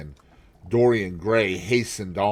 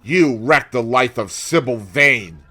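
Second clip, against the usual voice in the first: accusing; 3 semitones higher, 6 dB louder than usual. Acted. Avenger accuses Dorian.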